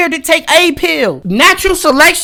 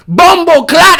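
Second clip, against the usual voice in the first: louder, higher mock Jamaican curse; mock Jamaican yell; 5 semitones higher, 4 dB louder, slower than usual. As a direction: blurt it like an angry Jamaican uncle. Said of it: "I would've started yelling".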